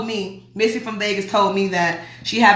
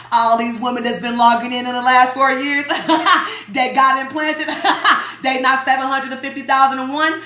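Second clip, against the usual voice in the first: laughing disbelief; 3 semitones higher than usual. Real, not acted. Mocking the unchanged implant count.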